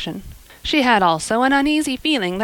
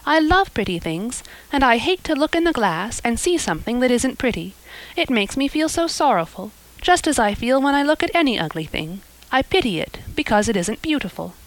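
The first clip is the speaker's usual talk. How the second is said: put-on higher, breathless dreamy girl; lightly voiced eager girl; 4 semitones higher than usual. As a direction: raise the pitch for an excitable young girl. Anne's voice again.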